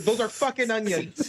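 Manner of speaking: slow deadpan. Retold or imitated. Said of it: "He's like".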